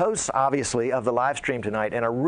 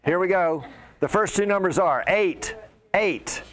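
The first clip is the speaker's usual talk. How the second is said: raised, punchy number calling; hyped giveaway announcement; 4 semitones higher than usual. Real, not acted. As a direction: call out the raffle numbers with hype. Calling raffle numbers to crowd.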